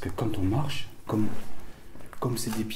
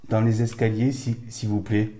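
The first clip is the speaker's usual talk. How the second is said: calling out; 2 semitones higher, 8 dB louder than usual. Real, not acted. Calling out to spirits.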